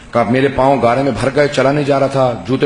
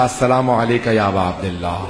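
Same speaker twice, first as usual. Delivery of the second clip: trembling greeting; 4 semitones lower than usual. Retold or imitated. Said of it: "کانپتا ہوا میں نے کہا".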